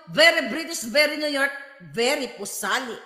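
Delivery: lightly sneering very British, very New York; mock the pretentious words; mocking social climber. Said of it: "Masyado kang social climber". (panunuya sa social climber)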